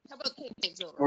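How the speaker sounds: faint and fast, far off; talking away from the mic. Real, not acted. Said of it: "sounds like you're across the room".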